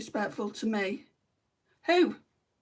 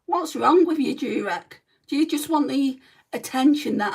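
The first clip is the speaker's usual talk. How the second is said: exasperated scolding; 4 semitones higher, 5 dB louder than usual. Real, not acted. Scolding rude chat commenter.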